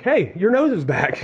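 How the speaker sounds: amazed leper. Retold or imitated. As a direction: play a leper thrilled to see his nose back. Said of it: "looking at each other and going like".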